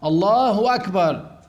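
"الله أكبر" read with a waw, as "اللهو أكبر"; added waw. Shown as a demonstration. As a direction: link the two words with a "و". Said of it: "يحط واو، بعدين يكتب أكبر". (نطق الواو بين الكلمتين)

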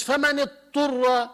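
فمن اضطر with the ḍād swallowed, sounding فمن اطر; dropped ḍād. Retold or imitated. Teacher imitates a reader dropping the ḍād. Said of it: "طب وين روحت بالضاد".

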